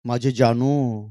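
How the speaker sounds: slow, drawn-out mock endearment; imitating lovey-dovey phone talk; doting pet name. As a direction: coo it slowly like a doting lover. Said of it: "काय लाडामध्ये".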